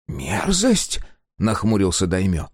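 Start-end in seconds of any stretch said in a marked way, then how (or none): 0.1-1.0 high, rising, offended мерзость; indignant echo. A narrator's reading. Engineer frowning at Sega's word, high and offended. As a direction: throw мерзость back, high and affronted.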